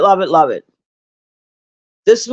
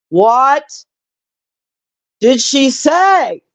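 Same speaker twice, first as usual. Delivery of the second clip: mock outrage; 5 semitones higher, much slower than usual. Real, not acted. Repeating chat's comment, outraged.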